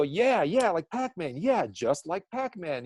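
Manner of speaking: high, excited yeah yeah; a hint of excited witness; eager agreement. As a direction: mimic a witness finally agreeing.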